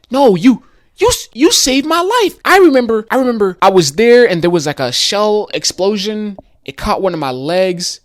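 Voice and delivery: high and loud, words tumbling out; excited remembering. Retold or imitated. Guitar man telling the rider he saved his life, high and excited.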